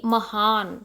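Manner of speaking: महान, weight on हा; stress on second syllable. Shown as a demonstration. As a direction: lean on the हा in महान. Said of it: "हा को थोड़ा लाउड बोलते".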